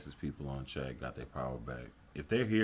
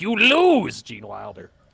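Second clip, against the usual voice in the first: put-on yelling character voice; 8 semitones higher, 16 dB louder than usual. Retelling what going out feels like: Willy Wonka yelling. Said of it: "it's just Willy Wonka yelling at me".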